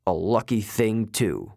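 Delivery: bored god grumbling over his cards. Acted. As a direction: mutter it sourly. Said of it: "Mister D grumbled".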